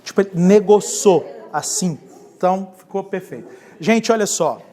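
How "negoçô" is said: "negociou" squeezed into "negoçô", Minas style; Minas Gerais accent. Shown as a demonstration. Pastor checking that the Mineiros understood, Minas accent. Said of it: "os mineiros entenderam?".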